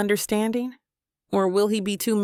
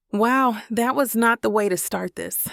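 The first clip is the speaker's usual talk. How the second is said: rising anger; 3 semitones higher than usual. Acted. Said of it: "anger rising in my tone".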